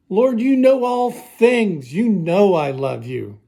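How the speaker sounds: slow, emphatic plea, starting high and falling; hurt pleading. Acted. Peter answering Jesus a third time, hurt and insistent. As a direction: protest your love, wounded and insistent. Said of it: "I was hurt".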